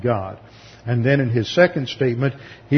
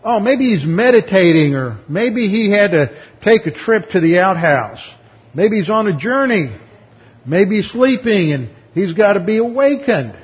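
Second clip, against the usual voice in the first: loud, raised, sneering taunt; mocking taunt; 7 semitones higher, 5 dB louder than usual. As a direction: egg them on with scorn. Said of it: "So he eggs them on".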